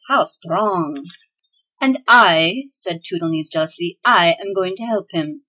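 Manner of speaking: reading a chapter aloud to listeners; lively storyteller voicing the elves; story narration. A narrator's reading. Radio host reads a Christmas story chapter, storytelling.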